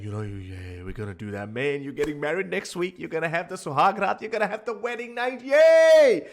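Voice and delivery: a friend's rising hype, ending in a high squealed yay; excited friend. Retold or imitated. Friend teasing the groom-to-be, building to a squeal. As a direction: hype up the groom about his wedding night, voice climbing. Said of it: "and his friend is saying".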